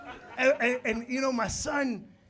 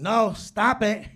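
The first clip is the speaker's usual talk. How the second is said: scolding no; 10 dB louder, much slower than usual. Retold or imitated. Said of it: "I kept saying".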